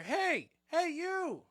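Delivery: high, loud call from across a yard; yelling old lady. Retold or imitated. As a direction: holler after a stranger, imitating an old lady. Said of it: "starts yelling at me".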